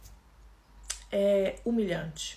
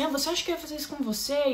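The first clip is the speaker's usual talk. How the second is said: higher, faster sneering taunt, imitating him; mock the crying woman with a light, scornful lilt; 6 semitones higher, faster than usual. Partner taunting her as she begs for her life, mocking. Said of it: "Ele começou a dar risada e falava assim".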